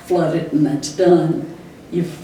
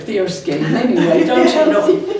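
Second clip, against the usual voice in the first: laughing; 4 semitones higher than usual. Real, not acted. Describing fierce hockey player.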